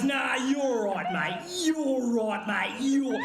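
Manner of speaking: slow, mock passive-aggressive Aussie bloke; lightly drawn Aussie mate holding back. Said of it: "the most passive-aggressive Aussie male thing".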